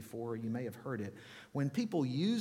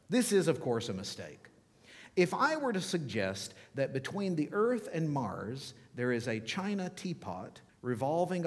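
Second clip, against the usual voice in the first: lightly lofty, emphatic delivery of a written argument; condescending. Acted. Preacher reads an atheist philosopher to church, mildly condescending. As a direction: read with a touch of condescension. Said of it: "you can hear the condescension".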